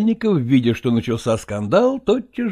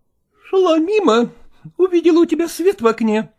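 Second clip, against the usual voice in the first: higher, cold offended wife; stiff, hurt wife arriving uninvited; wife's voice; 3 dB louder than usual. Acted. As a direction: voice the jealous wife bursting in.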